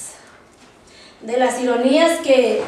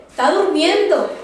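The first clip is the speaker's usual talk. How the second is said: lightly mocking, higher pitch; a mild teasing jab, pitched up; ironic taunt; 4 semitones higher than usual. Elías mocking the prophets of Baal, lightly ironic. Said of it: "es una forma irónica en la que estaba hablando".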